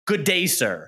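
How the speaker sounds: lightly voiced curt dismissal in a mock Wonka manner; Willy Wonka. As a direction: dismiss him like an offended Wonka. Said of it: "like Willy Wonka said to Charlie".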